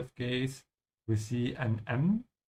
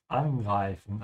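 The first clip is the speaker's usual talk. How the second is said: emphasis on "an" in "angreifen"; stress on prefix; 3 semitones lower, slower than usual. Shown as a demonstration. Teacher showing a separable verb, stressing "an" in "angreifen". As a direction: lean on the first syllable, "an", of "angreifen". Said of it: "notice how I'm emphasizing the prefix".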